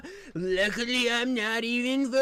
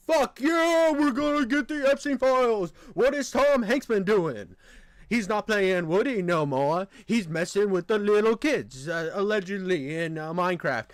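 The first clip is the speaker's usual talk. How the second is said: excited; 3 dB louder than usual. Retold or imitated. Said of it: "I'm like".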